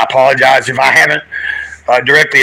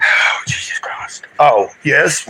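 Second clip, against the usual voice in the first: unvoiced whisper; whispered exclamation; whispered aside; 4 dB quieter, slower than usual. Real, not acted. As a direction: breathe it under your breath.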